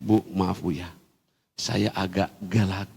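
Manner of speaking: low, soft apologising; retold apology. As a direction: act out a subdued sorry. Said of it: "saya salaman dengan si ibu itu". (meminta maaf dengan pelan)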